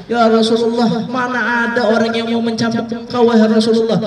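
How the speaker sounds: mild retold weeping plea; tearful plea. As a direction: plead through tears, voice lifted. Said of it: "Ukashanya juga sambil nangis".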